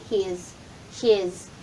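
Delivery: HIS with a final Z sound; Z ending. Shown as a demonstration. Teacher drilling the ending for learners, Z ending. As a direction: repeat HIS, buzzing the last consonant. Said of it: "Letter Z ang dulo".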